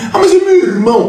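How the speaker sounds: high mocking whine of an excuse. Speaker mocks a listener defending his brother, high mocking whine.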